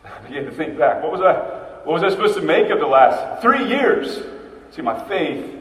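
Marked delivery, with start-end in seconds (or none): 1.0-4.2 anguished questions. Acted. Thomas voicing despairing questions.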